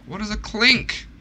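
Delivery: high rising puzzled question; baffled by a strange item name. Real, not acted. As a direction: ask it in total confusion.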